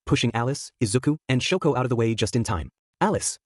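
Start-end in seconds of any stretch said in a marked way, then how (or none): 3.0-3.4 high-pitched, contained shout. A narrator's reading. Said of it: "shouted in unison".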